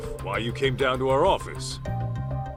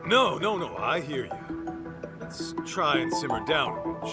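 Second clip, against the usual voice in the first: hasty placating; 4 semitones higher than usual. Acted. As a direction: back down and placate her quickly. Backing down before her threat.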